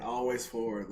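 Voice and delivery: attempted Canadian accent. Shown as a demonstration. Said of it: "if I can do a Canadian accent".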